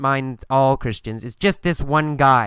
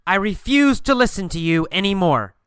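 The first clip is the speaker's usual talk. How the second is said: raised, higher-pitched firm refusal; mild acted yell; 4 semitones higher than usual. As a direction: yell it at him, without full force. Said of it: "I yell at him".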